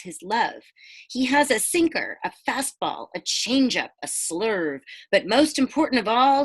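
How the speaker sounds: rhyming storybook read-aloud; picture-book narration; reading to children. A narrator's reading. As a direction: lilt the rhyme for the kids. Reads rhyming book to class.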